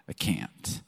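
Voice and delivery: whispered let-down; a hushed, sheepish turn-down; mock awkward refusal. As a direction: barely breathe the no. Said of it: "And they're like".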